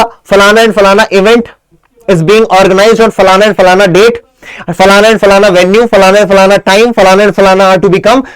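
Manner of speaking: slow template reading, rising at each slot; slow dictation. Shown as a demonstration. Teacher showing students the notice template, slow and measured. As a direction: dictate the blanks one by one, slowly. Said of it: "elaborate करके लिखना है".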